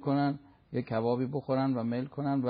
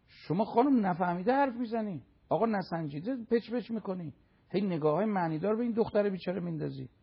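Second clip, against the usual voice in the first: higher-pitched reproach of gossips; acted angry scolding; 4 semitones higher than usual. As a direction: tell off the whisperers with indignation.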